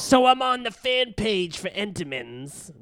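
high imitation of his mother; mom voice. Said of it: "that's more what I do for her".

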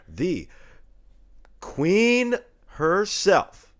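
booming, slow showman's introduction; grand announcer voice. Pretend. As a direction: announce her like royalty arriving.

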